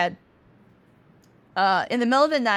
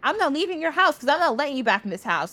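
mock huffy, slightly raised pitch; huffy retort; 5 semitones higher than usual. Sun refuses to leave Moon the house, huffy. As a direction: play an exasperated refusal, quick at the end.

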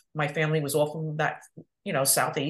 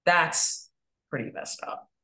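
whispered aside; slower than usual. Retold or imitated. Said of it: "she's like".

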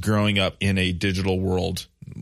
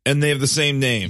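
amazed disbelief; 7 semitones higher, 4 dB louder than usual. Real, not acted. Amazed at the lookalike pitchers.

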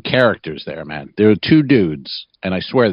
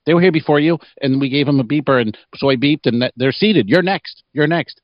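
scared hostess; 5 semitones higher than usual. Retold or imitated. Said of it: "She's so scared".

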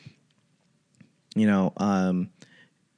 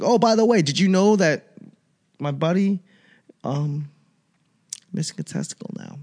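mock casual mention; 7 semitones higher than usual. Telling wife, high mock voice.

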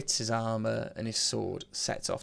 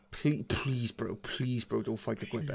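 shaken pleading. Acted. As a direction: plead like a worried mate, half-joking. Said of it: "he's all shaken".

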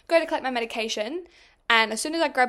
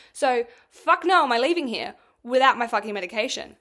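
angry rant; 5 dB louder than usual. Retold or imitated. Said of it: "And I'm like".

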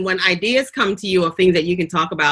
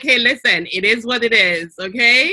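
put-on higher-pitched, light Jamaican accent; 5 semitones higher than usual. Host owning her roots to viewers, light Jamaican accent. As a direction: let a hint of Jamaican accent out. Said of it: "my Jamaican accent comes out".

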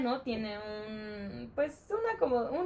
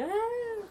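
put-on child crying; 13 semitones higher, 3 dB quieter than usual. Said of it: "la niña ya estaba llorando de".

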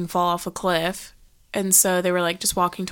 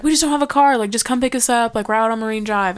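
insistent; 3 semitones higher, 3 dB louder, faster than usual. Retold or imitated. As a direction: imitate a caller brushing off questions and pushing. Retold caller insisting on a pickup.

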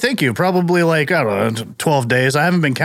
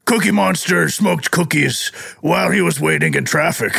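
Cookie Monster voice; 3 semitones higher than usual. Acted. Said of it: "did Cookie Monster encounter traffic".

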